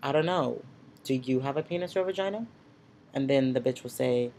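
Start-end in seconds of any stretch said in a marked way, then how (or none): 0.0-2.5 tossing the question back with a sassy lift at the end; mock-innocent sassy comeback to a rude stranger; sassy counter question. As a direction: turn it around on them, a bit sassy. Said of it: "be a little sassy".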